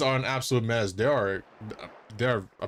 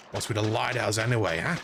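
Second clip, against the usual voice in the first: quick, lower Australian grumble; Australian dolphin; 4 semitones lower than usual. Acted. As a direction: demand it in a broad Aussie accent. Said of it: "is this dolphin Australian?".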